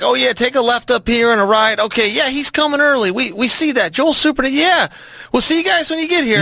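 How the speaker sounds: friendly guards on the phone. Retold or imitated. Guards giving directions to early arrival, friendly.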